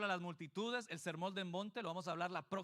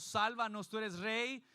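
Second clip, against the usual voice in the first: crowd's acclaim; 3 semitones higher, 5 dB louder, slower than usual. Retold or imitated.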